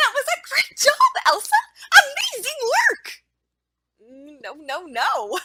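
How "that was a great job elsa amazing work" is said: shrill, overly high, very loud voice. Showing teachers what not to do when praising a student: too-high-pitched praise. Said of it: "example of what not to do".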